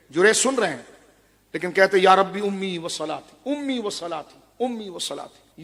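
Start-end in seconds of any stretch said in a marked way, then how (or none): 2.0-5.6 slow pleading prayer. Retold or imitated. Jurej torn in his prayer.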